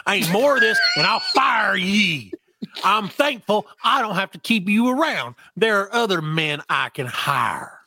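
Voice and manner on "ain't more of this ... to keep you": angry threat. Acted. Grandfather yelling at the servant to mind his business, angry shout. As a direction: shout him down and threaten to fire him.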